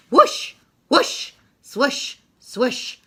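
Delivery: high whooshing. Acted. Crane swinging sound.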